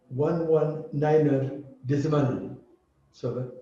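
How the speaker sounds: one one niner decimal seven read slowly and evenly; slow radio readout. Shown as a demonstration. Teacher modelling a radio frequency readout. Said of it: "just listen".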